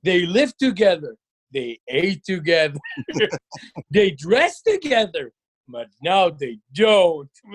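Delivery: very slow, dramatic narration; mock-solemn storytelling, word by word; rapper impression. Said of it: "לרמת הריטארד".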